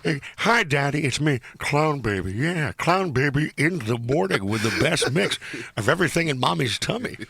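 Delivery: light hint of a crooner; Clown Baby voice. Host mocking a DJ's on-air baby, mild crooning. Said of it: "Clown Baby sounds like a singer".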